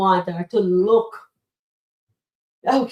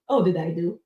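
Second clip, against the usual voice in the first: ordinary delivery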